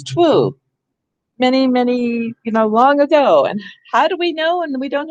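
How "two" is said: "twu" with the W sounded after the T; old pronunciation. Shown as a demonstration. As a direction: say "twu" as "twoo", W fully voiced. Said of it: "People used to pronounce it as".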